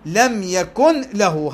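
"يكن له" run on, the n still heard; slow, link "يكن" to "له" keeping the n; no pause, clear n in "يكن"; joined without merging. Shown as a demonstration. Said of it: "هذا وصيل".

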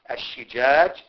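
"الشجاج" said slowly as ash-shijaaj, with a clear i after the sh; "الشجاج" بتأنٍّ وبكسر الشين; slow, careful shin with kasra. Shown as a demonstration. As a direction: spell out "الشجاج" slowly, shi- not sha-. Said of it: "بكسر الشين".

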